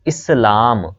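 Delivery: इस्लाम as is-laam, long second vowel; correct pronunciation demo. Shown as a demonstration. Teacher giving the right form, careful demo of इस्लाम as is-laam. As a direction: carefully sound out इस्लाम with i first. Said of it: "ये इसका सही तलफ़ुज़ है".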